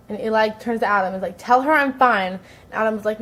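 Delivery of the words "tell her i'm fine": mock indignant outburst, louder; irritated retort. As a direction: voice a retold annoyed teenager, pushed louder. Retold quarrel, Eli snaps at friend.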